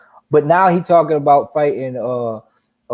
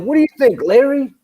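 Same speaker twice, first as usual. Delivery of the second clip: mock announcer; 10 semitones higher, 4 dB louder than usual. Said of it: "he'd be like".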